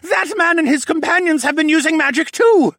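loud, high-pitched furious accusation; outraged shout pointing out the culprit; angry accusation. A narrator's reading. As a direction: shout the charge, building to the last word. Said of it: "stabbed an angry finger at me".

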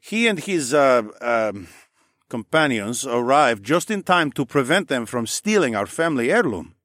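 hesitant start with uh and um; lightly voiced man searching for the word; earnest Mel. Mel hesitates, then vouches.

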